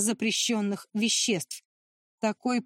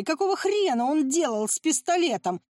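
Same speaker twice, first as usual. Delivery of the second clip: a higher, half-voiced yell; 5 semitones higher than usual. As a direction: demand it, outraged. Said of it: "орал Брэдли". (орать, голос выше)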